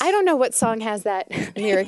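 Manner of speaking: chuckling through the line; amused, laughing mid-sentence. Real, not acted. Joking about odd song lyric.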